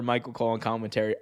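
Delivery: ordinary talk, nothing marked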